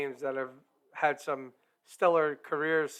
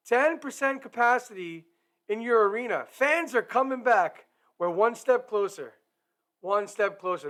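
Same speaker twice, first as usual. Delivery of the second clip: higher and louder, thrilled shout-out; excited call-out; 6 semitones higher, 4 dB louder than usual. Real, not acted. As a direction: announce the good news with real joy. Calls out to Islanders and Rangers fans.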